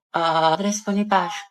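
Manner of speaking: slow, unsure classroom answer; hesitant answer. Acted. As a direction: stretch out "Andres Bonifacio" uncertainly. Student unsure answering teacher. (alanganing mabagal na sagot)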